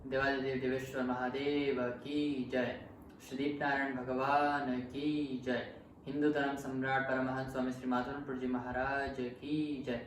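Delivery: rapid chanted praise of the gurus; fast devotional chant; devotional invocation. Acted. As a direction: rattle off the jai invocation in one breath.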